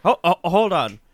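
high, loud stunned wait what; mock surprise. Daughter reacts to the bombshell, mock surprise. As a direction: play the daughter's shocked double take. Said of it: "she's like".

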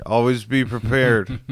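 slow, drawn-out mock counsel; imitated drunk advice. Drunk friend advising a troop of Boy Scouts, mock-solemn slow imitation. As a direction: lightly play a shambling drunk dispensing wisdom. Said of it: "He's shambling through DuPont Circle".

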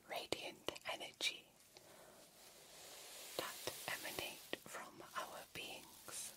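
very soft, fully whispered ASMR; hushed alien explanation, all breath. Acted. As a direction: whisper it carefully, phrase by phrase.

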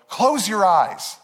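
put-on slow, drawn-out kid voice with a laugh; playful imitated daughter; mock child command. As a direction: tease like a giggling little girl.

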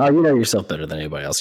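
fast, mock-sincere flattery; breezy sarcastic praise; backhanded compliment. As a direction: toss off the fake compliment quickly. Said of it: "That's a very kind of backhanded compliment".

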